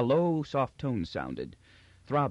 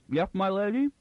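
Magnifico voice; 9 semitones higher, 4 dB louder than usual. A narrator's reading.

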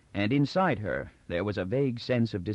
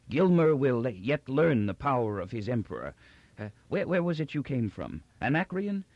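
proud proclamation wandering into higher, confused questions; doddering old Emperor, imperious; 4 semitones higher than usual. Acted. Old Emperor signs the order, imperious then forgetful. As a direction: declare grandly, then lose the thread.

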